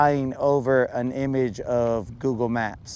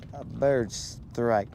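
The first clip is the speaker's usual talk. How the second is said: sloth voice; 6 dB quieter, much slower than usual. Pretend. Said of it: "Very terrible".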